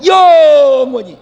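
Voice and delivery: slow, loud, high cry of "영원히"; sermon shout; preacher's shout. Real, not acted. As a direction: proclaim it to the congregation. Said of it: "영혼을 가지고 몇 년을 살아요?".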